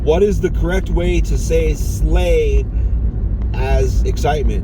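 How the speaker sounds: slow voice-assistant query. Real, not acted. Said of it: "Hey Google".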